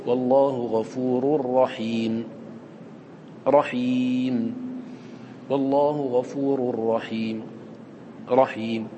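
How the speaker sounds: slow, drawn-out demo of رحيم with a faint trace of the final vowel; slow Quran recitation demo, faint vowel on رحيم; demo of rawm ending. Shown as a demonstration. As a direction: stretch out رحيم and let a hint of its vowel sound at the pause. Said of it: "يجوز لنا أن نقول".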